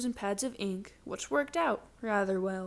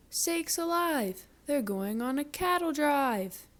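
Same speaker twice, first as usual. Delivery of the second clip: mock shout; 5 semitones higher than usual. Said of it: "The farmer shouted".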